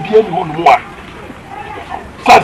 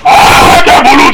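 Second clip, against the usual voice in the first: shouted catchphrase; 2 semitones higher, 4 dB louder, slower than usual. Acted.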